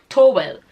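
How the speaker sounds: "towel" said as TOH-well; Nigerian pronunciation. Shown as a demonstration. Shopper repeating her request to supermarket staff, Nigerian "towel" as TOH-well. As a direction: say "towel" with a long o and clear -well. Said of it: "That was what I said".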